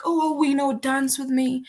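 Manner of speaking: put-on high, gushing drunk girl; tipsy plea to dance; drunk classmate. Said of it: "she was drunk and she's like".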